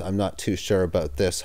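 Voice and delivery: low, quiet muttered aside. Real, not acted. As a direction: mutter it under your breath. Muttered aside after WWE joke.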